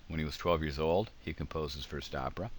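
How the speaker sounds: put-on rising "twelve years old," then a pause; clear pause after old. Shown as a demonstration. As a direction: stop at "old," before "he composed his first opera". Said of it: "It's hard to read that without pausing".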